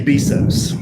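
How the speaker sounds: "Bezos" said as BEE-zohs; long "ee" in "Bezos", insistently; preferred pronunciation. Shown as a demonstration. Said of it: "I say Bezos".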